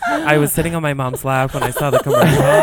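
mocking Brian. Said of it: "Brian's like".

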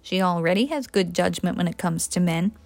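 soft, low aside; whispered undertone. Acted. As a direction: murmur it for one ear only. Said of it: "whispered in an undertone".

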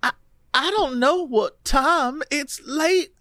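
a hint of Louisiana in a dazed recollection; Louisiana accent. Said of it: "read her in a Louisiana accent".

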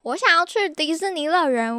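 quoting him. Retold or imitated. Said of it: "他一开头他就问说".

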